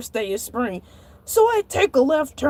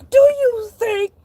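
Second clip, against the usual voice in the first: high, slow, indignant; incredulous retort; 7 semitones higher, 4 dB louder, slower than usual. Acted. Shark snapping back at the manager, incredulous. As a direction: stretch each word in disbelief.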